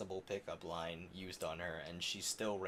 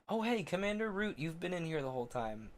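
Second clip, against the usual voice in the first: surprised; 7 semitones higher than usual. Real, not acted. Noticing someone present.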